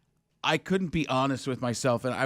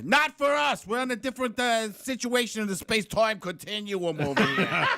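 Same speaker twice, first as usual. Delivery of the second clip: put-on emphatic Boston accent, starting high; 5 semitones higher than usual. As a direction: push back in comic Boston-speak. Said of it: "that's Boston".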